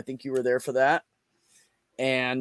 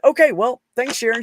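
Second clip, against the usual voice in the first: relieved; 10 semitones higher, 8 dB louder than usual. Retold or imitated. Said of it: "And I said".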